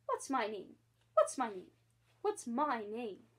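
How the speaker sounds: repeated, rising urgency, loud; shrill anxious voice. Acted. Starling begs the baby John to say his name, anxiously. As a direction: plead anxiously to be remembered. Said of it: "in a shrill, anxious voice".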